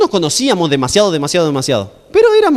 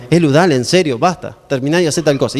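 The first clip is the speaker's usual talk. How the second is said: lowered, mildly stern parental insistence; serious voice; 4 semitones lower than usual. Retold or imitated. Father insisting that Elu stop playing, serious voice. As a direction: imitate a parent repeating an order. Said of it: "medio que pone la voz seria".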